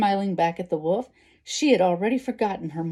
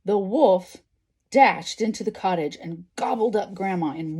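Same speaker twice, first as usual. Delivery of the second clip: expressive storybook narration; story reading to children. A narrator's reading. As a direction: read it out like a picture book. Reads a story aloud.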